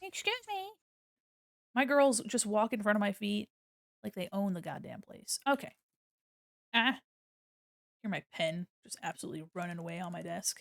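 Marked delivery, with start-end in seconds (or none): 0.0-0.7 very high voice used for a pet. Asking a toy worm on the mic to move: talking as to pet cats. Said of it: "Talk to it like I talk to my cats".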